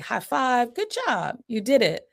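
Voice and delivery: high-pitched parental cheer; cheering praise. Acted. Parent rewarding a son's first tries, cheering. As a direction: celebrate a small child's success, voice up high. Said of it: "I give verbal praise, I clap".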